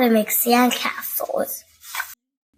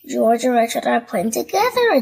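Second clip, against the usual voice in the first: cheering; 3 dB louder than usual. Acted. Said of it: "cheers Peppa".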